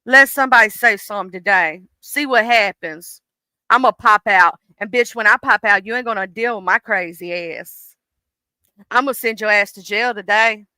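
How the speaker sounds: a hint of a fed-up, ready-to-pop voice; mock angry threat. Anger warning whoever crosses her, mild mock menace. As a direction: threaten them, simmering. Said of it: "And she's like".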